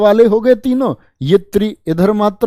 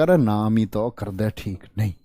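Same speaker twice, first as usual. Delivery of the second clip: put-on child's complaint; 8 semitones lower, 8 dB quieter than usual. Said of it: "बच्चा कहेगा".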